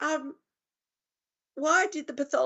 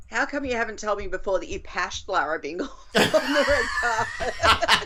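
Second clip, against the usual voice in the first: laughing. Real, not acted. Teasing through laughter.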